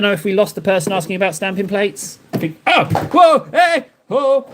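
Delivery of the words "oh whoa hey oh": high, sudden whoa; startled whoa. Real, not acted. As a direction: caught off guard by something. Sudden start at something seen.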